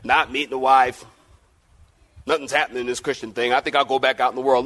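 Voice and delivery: lightly voiced discouraged churchgoer; disillusioned believer. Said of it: "Maybe you've been thinking about".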